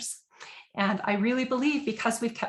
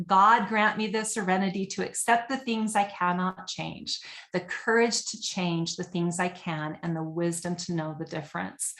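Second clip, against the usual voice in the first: recited prayer. Shown as a demonstration. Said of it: "this is the serenity prayer".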